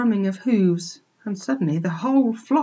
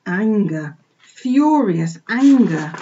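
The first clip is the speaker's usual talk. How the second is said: ANGER drawn out slowly; furious emphasis; 6 dB louder, much slower than usual. A narrator's reading. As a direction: build to a louder, stretched "furious anger". Narrator voices piglet's rising fury.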